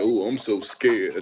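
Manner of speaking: slow sarcastic scared voice; mock fear. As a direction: drawl it out like fake fright.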